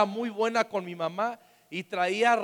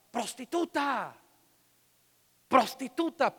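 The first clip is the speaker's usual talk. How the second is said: mock shouted insult, higher and slow, louder on the repeat; retold neighbours' yell; 6 semitones higher, 3 dB louder, slower than usual. Preacher retelling neighbours screaming at his mother, a mild mock yell. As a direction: neighbours yelling an insult at the mother from their windows, imitated shout. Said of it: "pero le gritaban".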